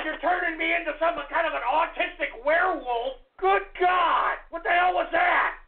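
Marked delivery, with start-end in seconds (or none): 3.4-5.5 exasperated shout. Real, not acted. Host yells at a prank call.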